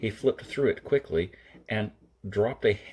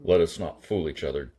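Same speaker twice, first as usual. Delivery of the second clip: a touch of impatience, lower and firmer; understated impatience in a lower voice; impatient; 4 semitones lower, 4 dB louder than usual. Acted. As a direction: cut through his games, mildly impatient. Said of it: "Kirk said impatiently".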